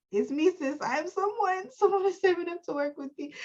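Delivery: strut it like a diva; sassy affirmation. Acted. Voices affirmation in bold persona.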